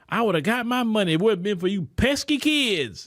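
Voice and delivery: a hint of a caught villain shaking his fist at the kids; cartoon villain. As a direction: lightly play the foiled villain from the kids' cartoon. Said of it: "you know, acting like that".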